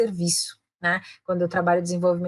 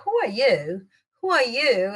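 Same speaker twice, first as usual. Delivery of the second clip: haughty, challenging "who are you?"; looking down on someone; 3 semitones higher, slower than usual. Shown as a demonstration. Teacher warning about intonation, condescending. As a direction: size them up as a nobody. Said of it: "aquele jeito, looking down at the person".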